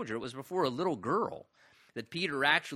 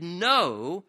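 loud flat refusal; insistent no; 6 dB louder than usual. Retold or imitated. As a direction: Peter cutting Jesus off, loud. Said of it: "He insisted".

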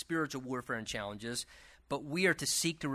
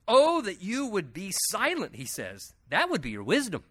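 sarcastic Job; 4 semitones higher than usual. Acted. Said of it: "Job's just sarcastic sometimes".

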